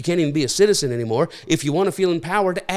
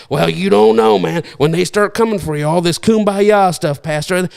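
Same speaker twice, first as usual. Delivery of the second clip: louder, pushy retort at the pastor; heckler challenge; 5 dB louder than usual. Retold or imitated. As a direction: throw it back at him like a doubter.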